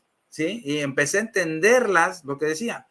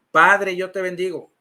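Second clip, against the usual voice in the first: lightly acted, firm model phrase; measured priest's prompt, lightly imitated; priest leading a repetition; 4 dB louder than usual. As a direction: lead the blessing for another to repeat. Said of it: "A ver, repite conmigo".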